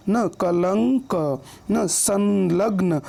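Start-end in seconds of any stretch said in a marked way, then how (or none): 0.4-1.1 कलंक slow, lingering on the nasal in लं; drawn-out pronunciation. Shown as a demonstration. Teacher showing anusvara placement, कलंक slowly drawn out. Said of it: "क के बाद उसका उच्चारण हो रहा है". 1.9-3.0 संलग्न slow, nasal held after सं; drawn-out pronunciation. Shown as a demonstration. Teacher showing the sound after स, संलग्न slowly drawn out. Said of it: "स के बाद उसका उच्चारण हो रहा है".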